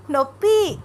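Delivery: high, loud cry of pain; pained shout. A narrator's reading. Wife in labour wakes husband, pained shout. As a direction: yell it out in pain. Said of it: "అంటూ గట్టిగా అరిచింది అనన్య".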